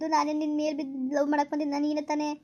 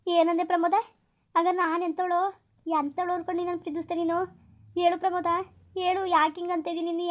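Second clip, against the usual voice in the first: raised, higher voice demanding answers; hurt angry outburst; 3 semitones higher than usual. Acted. Girlfriend demanding Pramod explain himself, angry and hurt. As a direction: confront him, hurt and angry. Girlfriend confronts lover in quarrel.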